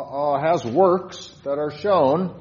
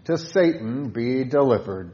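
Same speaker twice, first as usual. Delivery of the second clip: hymn line read aloud; 2 semitones lower, 3 dB louder than usual. Shown as a demonstration. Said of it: "Stanza four".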